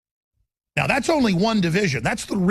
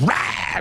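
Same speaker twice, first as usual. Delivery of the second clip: rah. Real, not acted. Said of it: "every instinct in me is just".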